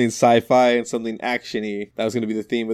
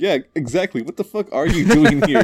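exasperated mock retort; 5 semitones higher, 6 dB louder than usual.

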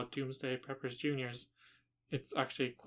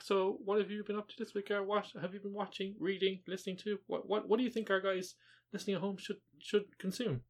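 patronizing schoolteacher, pitched up; condescending teacher voice; 6 semitones higher than usual. Acted. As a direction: talk down like a smug teacher. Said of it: "You did a very kind of condescending teacher voice".

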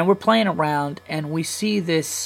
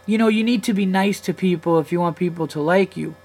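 higher-pitched mimicry of a preachy kid; lecturing four-year-old; 5 semitones higher than usual. Four-year-old lecturing the dad at the park, mock preachy. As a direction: lightly imitate a child giving a lecture. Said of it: "And then the kid goes".

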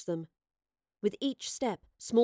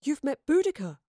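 higher-pitched, awed question; marvelling; 6 semitones higher, 3 dB louder than usual. A narrator's reading. Gaius learns she met the queen, marvelling. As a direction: marvel at a famous name. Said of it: "marvelled Gaius".

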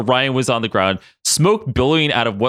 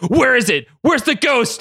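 yelling; 12 semitones higher than usual. A narrator's reading. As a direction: yell it out, hunting the ghost. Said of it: "Logan yelled".

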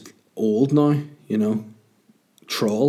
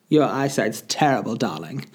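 a hint of the wife. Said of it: "My wife was like".

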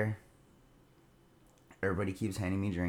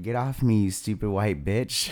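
mock drunk snap; 6 dB louder than usual. Drunk him snapping at friend.

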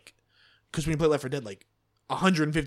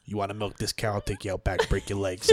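Sopranos mobster; 4 semitones lower than usual. Pretend. Friend threatening would-be cow milkers, mild mobster voice. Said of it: "transitioning back into Sopranos".

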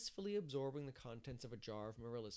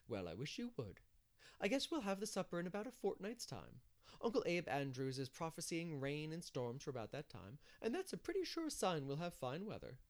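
lightly voiced village busybody, higher; busy organiser; 5 semitones higher than usual. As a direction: chat confidently with a lifted voice. Narrator voices Mrs Lynde.

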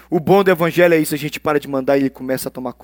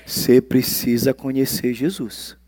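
earnest plea; 5 semitones lower, 5 dB quieter, slower than usual. Shown as a demonstration. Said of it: "Tem que falar, né?".

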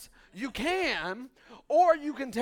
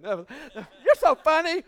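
mock flattered; 4 semitones higher, 8 dB louder, much slower than usual. Mock reply to laughing crowd.

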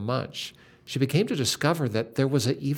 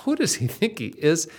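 indignant retold; 4 semitones higher than usual. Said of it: "this is what she recounted later was in her heart".

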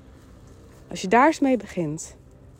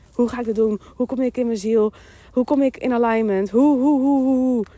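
hurried inner voice; 3 dB louder than usual. Acted. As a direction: imitate a busy, nagging head voice. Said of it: "stemmetje die continu uit druk, druk, druk, druk, gehaast is".

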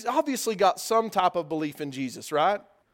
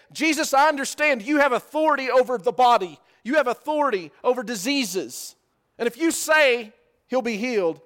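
a hint of an earnest soldier, louder; voicing the centurion; 4 semitones higher, 4 dB louder than usual. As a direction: plead with conviction, a touch louder.

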